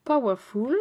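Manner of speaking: "Powerful" said loud in a full English accent as "pa-wa-ful", rising at the end; playful, exaggerated English accent; hammed-up English accent. Shown as a demonstration. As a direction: belt out "Powerful" in a big mock English accent. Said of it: "mon accent anglais".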